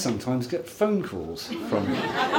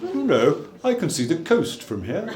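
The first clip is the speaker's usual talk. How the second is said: giraffe voiceover; 5 semitones higher than usual. Retold or imitated. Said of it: "the giraffe would be going".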